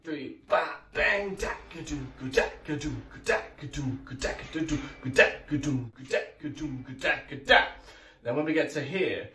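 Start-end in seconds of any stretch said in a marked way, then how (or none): 0.5-7.6 drum groove vocalised. Shown as a demonstration. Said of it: "So we've got one".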